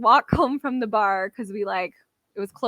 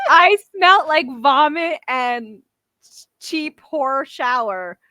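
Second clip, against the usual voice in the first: giggling through words, louder; laughing while talking; 4 semitones higher, 5 dB louder than usual. Real, not acted. Telling friends about smelling like vomit, laughing.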